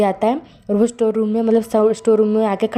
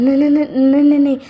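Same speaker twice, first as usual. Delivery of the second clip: higher, louder rapid no no no; panicked denial; 6 semitones higher, 6 dB louder, faster than usual. Acted. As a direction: deny frantically.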